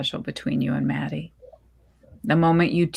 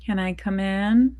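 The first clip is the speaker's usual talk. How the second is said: gentle mom voice; 3 dB quieter than usual. Acted. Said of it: "Mom's gentle voice barely makes it".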